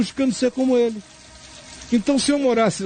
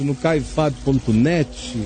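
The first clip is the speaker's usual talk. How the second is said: dictating slowly; 7 semitones lower, slower than usual. Shown as a demonstration. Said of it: "Anote aí".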